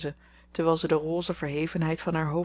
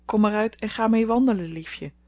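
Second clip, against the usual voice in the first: lightly voiced parrot, a bit louder; hint of a silly parrot call; 4 semitones higher, 5 dB louder than usual. Amy retelling to Laurie, lightly imitating the parrot's silly call. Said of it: "riep op zijn dwaze toon".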